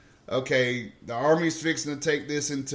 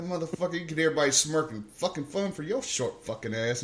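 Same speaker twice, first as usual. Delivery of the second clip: much softer grumbled insult under the breath; muttering curse; 6 dB quieter than usual. Retold or imitated. Recruit cursing the sergeant under his breath, soft mutter. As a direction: grumble it so he won't hear.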